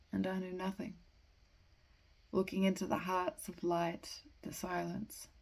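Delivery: measured verse with pauses between phrases; poetry reading. Acted. Amateur reading The Waste Land to listeners, measured poetry reading. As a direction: read verse deliberately, pausing at line breaks. Reads a poem aloud.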